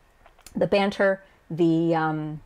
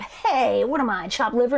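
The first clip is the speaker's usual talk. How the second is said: hammed-up indignant greeting, higher pitch; over-the-top; 5 semitones higher than usual. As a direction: make a big show of being ignored. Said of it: "Toya's over-the-top".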